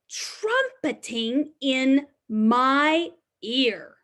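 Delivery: slow, sing-song picture book reading; reading to children. Acted. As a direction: read the refrain slowly to little ones. Reads the rhyming book refrain.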